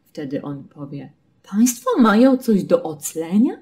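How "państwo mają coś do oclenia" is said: lightly voiced surprised customs officer, higher and louder; a bored officer faking surprise; Państwo mają coś do oclenia, raised and surprised; mock surprised official. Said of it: "takie zaskoczone zdanie".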